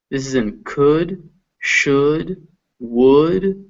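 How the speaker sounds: could, should, would each with a short lax oo; short oo vowel. Shown as a demonstration. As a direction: sound the oo in could. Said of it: "is all this uh".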